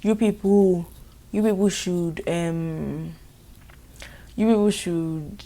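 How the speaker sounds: slow, loud drawn-out address; slow loud mock lecture; mock staff. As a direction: drag out the words like a hesitant official. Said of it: "they're like".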